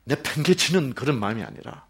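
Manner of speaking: normal talking voice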